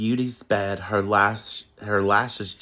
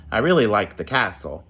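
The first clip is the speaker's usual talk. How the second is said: pouting; 5 dB louder, faster than usual. Acted. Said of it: "frowned and pouted".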